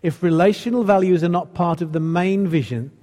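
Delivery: measured read-aloud with weighty pauses; slow reading. Real, not acted. Preacher reading an important text to the church, slowly. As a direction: read it out deliberately, phrase by phrase. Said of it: "I'm gonna read it quite slowly".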